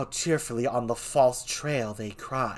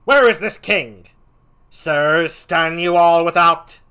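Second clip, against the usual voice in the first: much higher and louder, demanding; furious Laertes; 6 semitones higher, 12 dB louder than usual. Acted. Laertes bursting in on the king, furious shout. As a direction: storm in hunting the king. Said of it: "give him a different voice".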